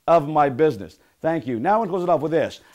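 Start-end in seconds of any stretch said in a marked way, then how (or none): 0.1-1.0 loud chant with a long, punched opening I; emphatic affirmation. Shown as a demonstration. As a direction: lead the last one with conviction. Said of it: "Last one".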